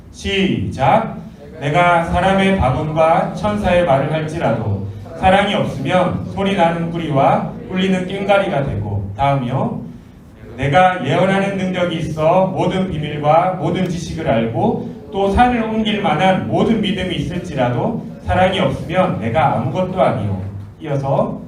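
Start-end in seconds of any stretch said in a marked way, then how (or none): 1.6-9.1 measured reading aloud; scripture reading. Acted. Preacher leading youth in reading the verse, measured recitation. 10.6-20.4 measured reading aloud; scripture reading. Acted. Preacher leading youth in reading the verse, measured recitation.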